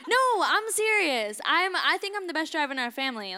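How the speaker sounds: getting heated over her driving; worked up. Real, not acted. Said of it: "I'm getting a little worked up about that".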